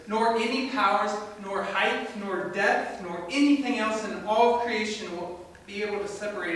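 scripture reading. Acted. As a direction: proclaim the verse to the congregation. Reads scripture aloud.

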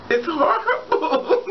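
high, stretched, breaking into laughter; laughing through words. Real, not acted. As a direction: squeal it slowly as laughter takes over. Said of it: "I'm sorry, I'm laughing".

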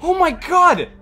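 very high, loud shouts of disbelief; adrenaline-fuelled screaming after a close moment; real excited yelling. Real, not acted. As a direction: yell it out, stretching the words. Exclaiming after an intense game moment.

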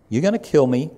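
loud emphatic warning. Acted. Jesus declaring their plot aloud to the crowd, emphatic. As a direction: hammer the point home to the crowd.

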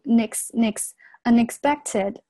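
"nix nix unexpected" with n joined onto the next vowel; linking. Shown as a demonstration. Teacher demonstrating linking, "nix" picked out, then "unexpected". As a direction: link the n into "ex" in "unexpected". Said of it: "这个地方有一个连读".

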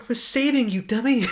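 teasing "dummy", hammed up; imitating Rose rescuing Finn, high and loud; quoting Rose. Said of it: "she's like".

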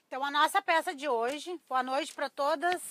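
hoarse, cracking voice; rough, cracked reedy voice. Real, not acted. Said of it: "minha voz de taquara rachada".

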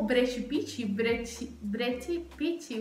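"Brechi Pichi" with a sh sound and ch sound plus final i; Brazilian pronunciation. Shown as a demonstration. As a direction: Brad Pitt said as "Brechi Pichi", slowly. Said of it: "se llama como".

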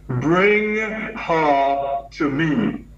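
each word drawn out slowly, firm; slow commanding order. Retold or imitated. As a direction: give a slow, weighty command. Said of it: "he still had that commanding voice".

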